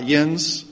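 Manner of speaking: "yins" said the Pittsburgh way, light rise. Shown as a demonstration. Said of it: "that, that's you all".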